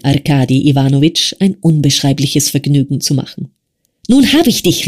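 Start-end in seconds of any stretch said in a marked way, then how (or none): 4.1-4.9 high, gloating shout of triumph; gleeful cry. Acted. Arkadi pinning his friend, gleeful high cry. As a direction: crow it out as you pin your friend. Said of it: "rief er".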